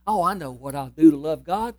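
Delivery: somebody thinking aloud. Acted. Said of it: "I can just hear somebody thinking".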